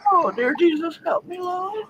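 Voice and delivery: high, soft plea through helpless laughter; real laughing fit, voice climbing and fading. Real, not acted. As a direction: beg for help while overcome with giggles. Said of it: "from laughing too hard".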